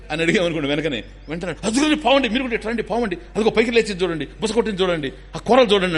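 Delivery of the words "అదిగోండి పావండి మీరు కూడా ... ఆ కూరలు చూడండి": high, agitated warning about a snake; a scared man pointing at a snake; frightened man. Retold or imitated. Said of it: "అంటాడు". (పాముని చూసి భయపడిన వ్యక్తి ఉద్వేగంగా)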